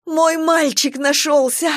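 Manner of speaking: high, slow, joyful outcry; a mother overjoyed her son is found; cry of relief. A narrator's reading. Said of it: "дикий вопль облегчения и счастья". (счастливый возглас облегчения)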